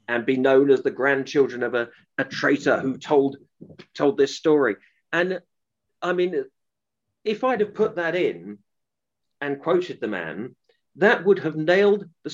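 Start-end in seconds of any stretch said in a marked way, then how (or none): none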